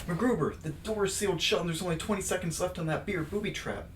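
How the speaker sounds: lightly voiced panicky partner; hammed-up Vicky voice. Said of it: "Please excuse my bad acting".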